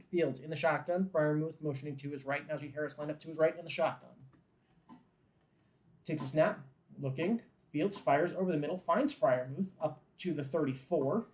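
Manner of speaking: brisk play-by-play call, steady and even; live play-by-play. Acted. Fan calling the Steelers drive live in a play-by-play voice. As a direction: call the snap as it happens.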